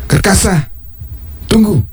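high call to stop someone leaving. Acted. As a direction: call him back before he goes. King calls after departing man.

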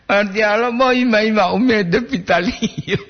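acted hopeful intonation; full of hope. Shown as a demonstration. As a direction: lift the pitch high with exaggerated hope. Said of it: "Intonasi dia itu penuh harap".

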